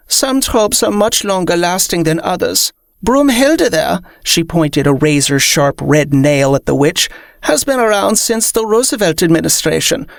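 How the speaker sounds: high, haughty vampire voice; lofty, disdainful vampire. Acted.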